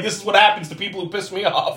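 high mock warning; vengeful monster. Monster showing off the hanged Fritz, high mock warning. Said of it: "He hung him up like".

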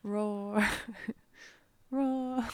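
mock roar. Player imitates remembered Minotaur roar.

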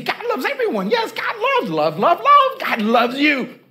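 high, sing-song, tossing love around cheaply; mock the cheap talk of God's love; mock breezy. Preacher mocks how people toss God's love like mints. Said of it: "like it's just a bunch of mints".

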